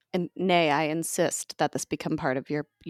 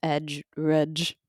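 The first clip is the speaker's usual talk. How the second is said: Scottish accent, rudge for rage. Shown as a demonstration. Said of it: "If you're, like, Scottish".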